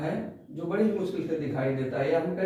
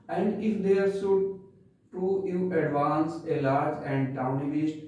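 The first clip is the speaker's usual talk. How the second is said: very slow, measured poem reading; poem recitation; much slower than usual. Shown as a demonstration. Teacher reciting the poem for class ten, slow recitation. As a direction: recite each phrase slowly with pauses. Rereads verse before explaining.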